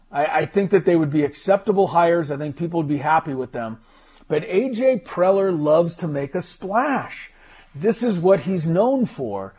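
remote line, boxy and hollow; through a tube. Real, not acted. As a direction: sounds like he's in a tube. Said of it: "He is not in a tube somewhere, as the stream is saying".

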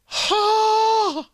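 huge high rising Huh, mock bafflement; exaggerated huh. Real, not acted. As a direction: toss out a baffled, cartoonish Huh.

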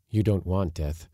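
ordinary delivery

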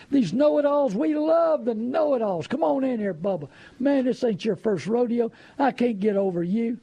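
butter up the know-it-all, hammed-up; mocking salesman flattery.

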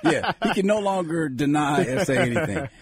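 ordinary talk, nothing marked

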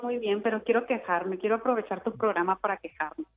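echoing like in a bathroom; canyon echo. Real, not acted. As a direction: voice bouncing off tile walls. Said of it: "escucho un eco terrible".

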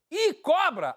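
high, sudden mock cry of warning; imitated alarm shout. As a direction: imitate a friend yelling in alarm. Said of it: "um amigo meu gritou assim".

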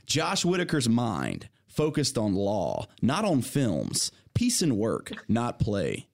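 slow, deliberate haiku reading; poem reading. Shown as a demonstration. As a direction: savor each short line. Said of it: "You ready?".

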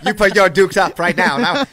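lightly voiced vintage brawler; mock tough-guy challenge; a hint of old-time film fighter; old-movie gangster. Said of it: "all talk like that, like gangsters".

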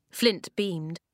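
ordinary delivery

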